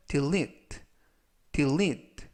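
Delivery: delete with -lete pushed, de- light; stress on second syllable. Shown as a demonstration. Teacher shows students where delete is stressed. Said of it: "두 번째 있는 E에 강세가 있습니다".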